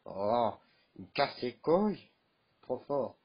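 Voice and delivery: ordinary talk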